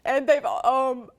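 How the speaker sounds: emotional. Real, not acted. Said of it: "I'm getting emotional".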